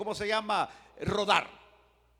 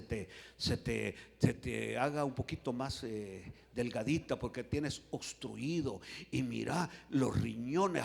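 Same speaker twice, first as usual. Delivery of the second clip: doctor; 5 semitones lower, 5 dB quieter than usual. Acted. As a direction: list ailments softly, stretching key words. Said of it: "Y me va a decir".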